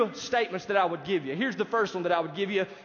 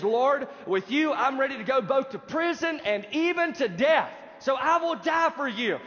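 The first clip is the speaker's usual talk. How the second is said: Peter vowing, a bit higher and stronger; emphatic raised voice; 4 semitones higher than usual. Retold or imitated. Peter swearing loyalty to Jesus, emphatic raised voice. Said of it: "Peter's raising his voice".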